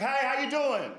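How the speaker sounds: put-on high, coquettish old-lady greeting; old lady acting cute. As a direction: play her pleased with her own looks. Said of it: "She thought she looked cute".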